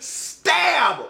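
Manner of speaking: sharp shout. Retold or imitated. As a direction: punch "Stab!" like the blow itself. Describing the arrow kill.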